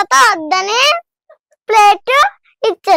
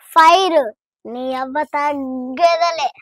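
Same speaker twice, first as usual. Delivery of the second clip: Pushpa dialogue; 3 semitones lower than usual. Pretend. Child asked for a Pushpa line, mild swaggering hero delivery. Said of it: "Pushpa dialogue చెప్తావా నాకు".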